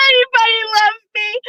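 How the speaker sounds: high, hammed-up crying shout; mock wailing cry. Retelling the movie, Meredith crying out to the family. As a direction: wail it like a melodramatic heroine.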